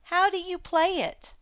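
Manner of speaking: wide-eyed innocent question; dinosaur asking. A narrator's reading. Dinosaur asks the children about the game, high. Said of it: "said the dinosaur".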